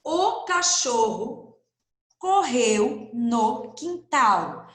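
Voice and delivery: O cachorro correu no quintal read very slowly, word by word; slow model sentence. Shown as a demonstration. Teacher reading the model sentence slowly to pupils. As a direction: read it slowly so children can follow. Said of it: "Essa seria a primeira frase".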